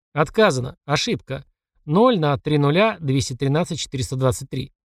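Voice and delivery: ordinary delivery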